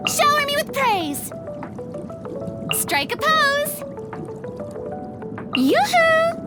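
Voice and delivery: high, exuberant stage call; high, theatrical flourish; showy performer calls. Acted. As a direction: call out to an adoring audience.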